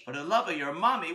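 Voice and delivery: puzzled repeat in a normal voice; puzzled echo. Acted. Boy questions his friend's odd plea, puzzled. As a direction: echo it back in disbelief, no shouting.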